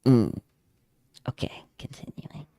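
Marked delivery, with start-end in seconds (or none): 1.3-2.5 soft whispered aside. Real, not acted. Streamer whispering to herself before continuing the list. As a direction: whisper it to yourself and move on.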